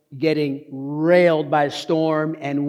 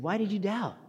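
gentle questioning; 4 semitones higher, 10 dB quieter than usual. Acted. Jesus tenderly questioning Peter.

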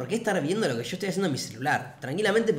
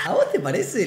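higher, louder put-on mocking question; mocking, teasing voice; 4 semitones higher, 5 dB louder than usual. Traveler to the couple accusing him, mocking teasing voice. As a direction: tease them as if it's absurd. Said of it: "con esta voz bien descansera".

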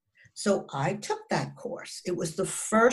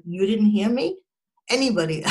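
raised, louder mock-indignant question; joking call-out; 3 semitones higher, 5 dB louder than usual. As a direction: call out to everyone as a joke. Jokes about how loud she yelled.

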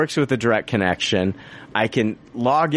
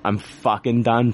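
drawn-out, deliberate, done with it; slow exasperated finality; slow fed-up repeat. Retold or imitated. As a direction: spell out each word, fed up. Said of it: "I finally just flip the fuck out".

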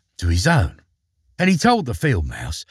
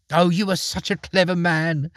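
higher, prim little mouse voice; a lightly voiced field mouse fawning over the mole; small, higher mouse voice, admiring; fussy field mouse; 8 semitones higher than usual. A narrator's reading.

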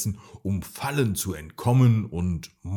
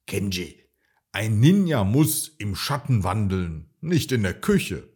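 stern; 4 dB louder than usual. Acted. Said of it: "sagte der Meister streng".

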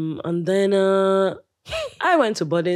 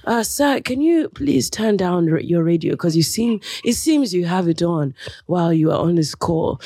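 smooth radio host. Retold or imitated. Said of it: "in the smoothest voice".

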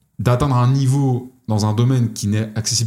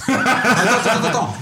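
en riant; 10 semitones higher than usual. Real, not acted. Éclate de rire en comprenant.

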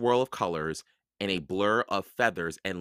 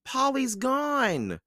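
put-on high, slow, sad little girl; a young girl, slow and sorrowful; sadly; much slower than usual. A narrator's reading. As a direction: let it drop, missing her friend. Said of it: "said Annie sadly".

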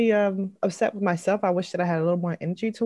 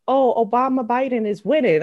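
imitating her son; 6 semitones higher, 7 dB louder than usual. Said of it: "He was like".

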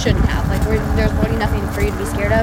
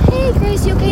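imitating mom; 10 semitones higher than usual. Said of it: "Mom was like".

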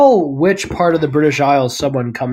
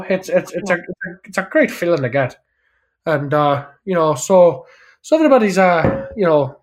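Welsh acceptance speech. Retold or imitated. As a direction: ramble happily like a Welsh winner. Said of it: "a Welsh person would be up there and be like".

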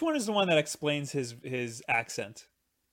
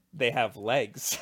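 laughing shout; 3 semitones higher, 7 dB louder, much slower than usual. Real, not acted. Giddy about Tremors monsters.

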